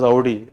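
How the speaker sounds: "Audi" with an "ow" glide at the start; Audi said as "ow-dee". Shown as a demonstration. Teacher showing class how to pronounce it, "Audi" as "ow-dee". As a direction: show "Audi" as "ow-dee", rhyming with "rowdy". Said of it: "You pronounce it as".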